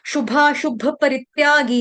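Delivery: शुभाशुभ with both शु short; both short shu. Shown as a demonstration. Teacher correcting a common mistake, both vowels short. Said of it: "दोनों शू छोटे हैं".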